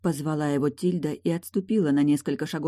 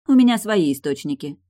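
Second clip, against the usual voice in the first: haughty, louder aside; 2 semitones higher, 7 dB louder than usual. Acted. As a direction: say it with lofty superiority. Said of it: "надменно произнесла Тильда".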